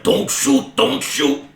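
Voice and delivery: high, frantic goblin plea; pleading goblin. Acted. Goblin waving his hands at armed dwarves, high and pleading. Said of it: "he's just waving his hands, and he's like".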